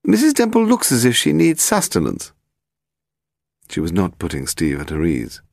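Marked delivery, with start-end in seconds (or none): 0.0-2.3 put-on high, haughty elderly lady; very old woman. A narrator's reading. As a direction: play a grand, frail old aristocrat. Lady Delamore talking.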